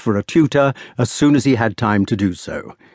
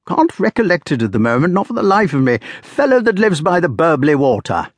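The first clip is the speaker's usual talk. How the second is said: put-on hearty old squire rambling; old country squire; 6 semitones higher than usual. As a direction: genial host offering port. Sir Ector's dialogue, read aloud.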